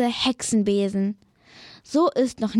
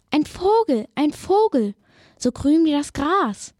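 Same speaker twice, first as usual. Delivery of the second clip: bird voice; 4 semitones higher than usual. Acted. Bird character voiced in story.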